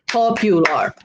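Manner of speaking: "Popular" measured out in three beats; syllable by syllable. Shown as a demonstration. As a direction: sound out each syllable of "Popular". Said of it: "Three syllables".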